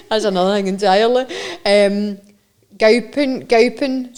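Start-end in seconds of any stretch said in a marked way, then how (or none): 2.8-4.1 "gowping" said clearly and loudly, twice; Scots word demonstrated. Shown as a demonstration. Host teaching a Scottish word, "gowping" said clearly. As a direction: model "gowping" with the Scots ow sound. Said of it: "you were saying it was gowping".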